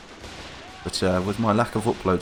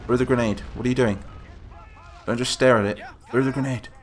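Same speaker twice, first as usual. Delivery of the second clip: frustrated urging; 3 semitones higher than usual. Real, not acted. Yelling at soldiers in game.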